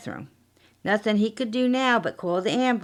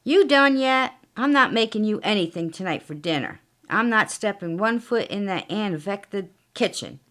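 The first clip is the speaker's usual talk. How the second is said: lightly voiced shrewish wife; nagging wife. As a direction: nag him from the other room. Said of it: "he hears her yapping".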